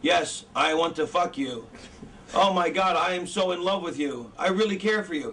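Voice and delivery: deadpan declaration of love; measured, unfeeling movie-actor delivery; mock love scene with no emotion; wooden actor. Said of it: "Imagine if the actors were like".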